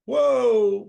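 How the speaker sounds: loud, high, drawn-out whoa; retold astonishment. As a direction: re-enact being bowled over by the crowd. Retelling reaction to audience's laughter.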